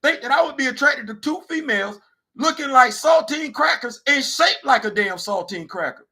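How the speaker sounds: high, loud outraged shout; retold furious shout. Comic retelling of shouting insulted at HR. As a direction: blow up at him in outrage. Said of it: "I said".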